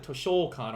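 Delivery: toshokan with the stress pushed onto a long SHO; mispronounced toshokan. Shown as a demonstration. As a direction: draw out the middle of toshokan, "to-SHOO-kan". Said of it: "I always say, like".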